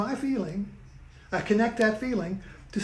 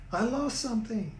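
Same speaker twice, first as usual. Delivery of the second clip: Jewish accent; 4 semitones higher than usual. Real, not acted. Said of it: "I'm starting to talk with a Jewish accent".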